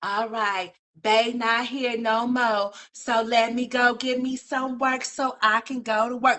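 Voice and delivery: slow, drawn-out quote voice; imitating her. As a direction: play her, unbothered and slow. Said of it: "At least she said".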